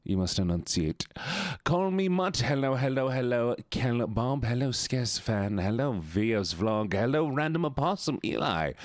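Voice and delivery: put-on character voice for greetings; Bert. Streamer performs a redeemed voice for viewers, in character. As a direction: hold a requested character voice while chatting. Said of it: "where this voice even sits".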